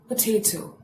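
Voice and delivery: POTATO said puh-TAY-toe; correct pronunciation. Shown as a demonstration. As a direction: say POTATO the standard way, middle syllable as 'tay'. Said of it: "now you pronounce it like this".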